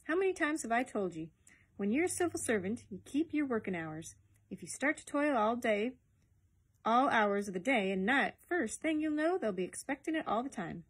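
lightly voiced Scottish boss lecturing his junior; mildly scolding senior civil servant; exasperated older Ferguson. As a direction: lay down the rule with some exasperation.

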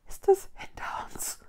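high breathless whisper; frightened gasp. Acted. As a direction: gasp it out in fear. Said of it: "keuchte Mila".

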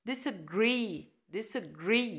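disagree with agree stressed. Shown as a demonstration. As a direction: lean on agree. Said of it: "ال stress على agree".

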